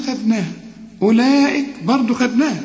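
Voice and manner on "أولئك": "أولئك" with the first vowel stretched four counts; long madd. Shown as a demonstration. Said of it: "لازم تمد أربع حركات".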